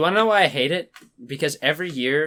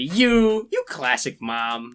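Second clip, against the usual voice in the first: sarcastic fake praise, slow; much slower than usual. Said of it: "no kid would ever be like".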